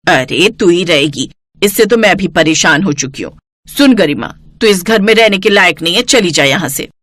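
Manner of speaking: harsh mother-in-law. Acted. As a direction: cast her out with contempt. Jaya throws Garima out.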